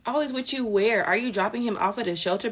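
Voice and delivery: high, loud disbelief; incredulous. Real, not acted. Incredulous follow-up.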